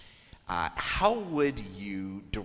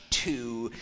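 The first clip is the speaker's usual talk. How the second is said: "to," punched a little louder; stress on to; 4 semitones higher, 5 dB louder than usual. Shown as a demonstration. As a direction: hit the word "to," hard. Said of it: "the one actor will punch".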